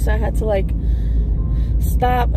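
overwhelmed birthday tears, talking through them; crying while talking. Real, not acted. Crying to her viewers while driving, tearful. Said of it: "So I'm just crying".

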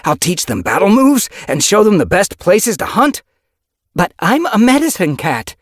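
high, loud voiced character; cat character voice.

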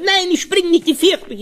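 put-on high, frightened little boy's protest; child pleading with his father not to jump; scared child.

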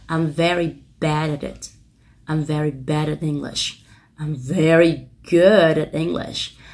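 slow, linked reads with "at it" kept light and unstressed; teacher models with unstressed at; slow model sentences. Shown as a demonstration. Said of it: "các bạn đọc nhỏ cho mình".

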